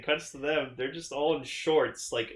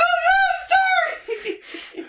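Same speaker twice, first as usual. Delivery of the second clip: laughing apology; 7 dB louder, much slower than usual. Retold or imitated. Mai caught, apologizing.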